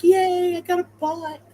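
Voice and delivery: high, loud sarcastic yay; mock cheer. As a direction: cheer it like a fake prize. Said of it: "It's like".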